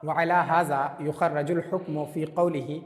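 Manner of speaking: slow, measured reading of Arabic; Arabic text recitation. Acted. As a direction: read the Arabic out phrase by phrase, slowly.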